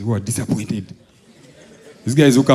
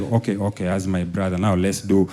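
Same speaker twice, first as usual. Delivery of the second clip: coaxing bargain; 5 semitones lower, 7 dB quieter than usual. Retold or imitated. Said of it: "He's like".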